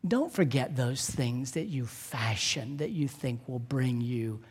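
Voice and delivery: soft and unhurried, with long pauses; solemn preaching appeal. Real, not acted. Pastor urging congregation not to forget their Savior, hushed appeal. Closing exhortation of a sermon.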